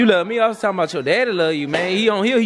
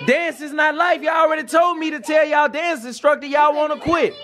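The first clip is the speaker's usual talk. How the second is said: mock angry shout; 7 semitones higher than usual. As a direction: shout it like a fed-up dad, not serious. Scolding kids about dancing.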